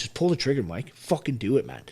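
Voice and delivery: retold self-goading. Veteran retelling the voice in his head that night, retold self-goading. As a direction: replay egging yourself on, in short pushes.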